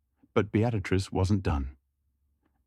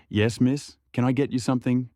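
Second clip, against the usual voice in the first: nervous attendant; 4 semitones higher than usual. Acted.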